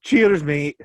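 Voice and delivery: loud, high mock Scottish toast; Scottish accent. Host toasts his cousin in a mock Scottish accent. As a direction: raise a glass in a hammed Scottish accent. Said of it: "a bit of Scottish accent".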